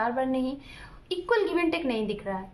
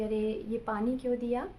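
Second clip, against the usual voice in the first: lovingly. Retold or imitated. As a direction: ask it kindly, without blame. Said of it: "प्यार से". (प्यार से, नरमी से पूछना)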